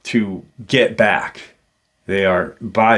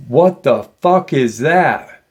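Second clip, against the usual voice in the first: slow, higher-pitched disbelief; retold startled exclamation; 5 semitones higher, 4 dB louder than usual. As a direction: act out a pilot's stunned outburst. Pilot suddenly sees something alarming.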